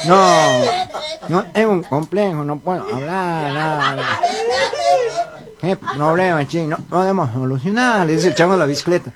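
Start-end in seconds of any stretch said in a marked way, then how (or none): 0.1-8.1 nasal cleft-palate speech; mock nasal speech impediment; gangoso. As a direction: talk through the nose with blurred consonants. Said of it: "vos sos un gangoso igual que yo".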